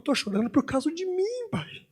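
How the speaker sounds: put-on high, hushed, whispery child's confession; choro contido imitado. Filho chorando confessa ao pai. (confissão chorosa de criança, imitada baixinho)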